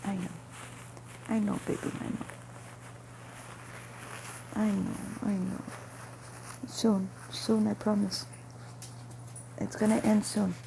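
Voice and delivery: soft reassurance to a pet; tender murmur to an upset dog; soothing the dog. Real, not acted. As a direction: comfort him gently.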